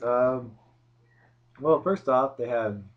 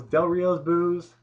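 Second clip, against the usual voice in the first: loud booing; 7 semitones higher, 7 dB louder, much slower than usual. Retold or imitated. Imitating loud crowd boos.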